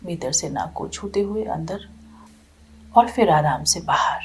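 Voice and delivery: unhurried meditation guidance with long pauses; guided meditation. Real, not acted. Teacher readying listeners to watch the breath, calm meditation guidance. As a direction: ease listeners gently into stillness, phrase by phrase.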